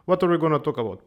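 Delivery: rushed, words tumbling out; talking too fast. Real, not acted. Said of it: "I'm talking too fast".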